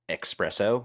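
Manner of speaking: espresso quoted as "ex-PRESS-oh". Retold or imitated. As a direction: say "espresso" with a K-S at the front. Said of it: "it should say espresso, like, spell it with an X".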